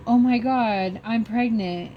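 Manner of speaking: acting out startled discovery; retold amazed realization. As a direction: blurt out big news, pitch up. Retold reaction to pregnancy news.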